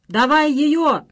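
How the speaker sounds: loud, high crowd chant; bay for her like a mob; rowdy demand. A narrator's reading. (громкое требование толпы)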